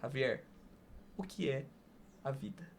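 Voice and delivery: lightly imitating a grave TV interviewer; Antônio Abajurama's closing question. Host asks the guest the show's final question, hushed and solemn. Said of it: "ele perguntava".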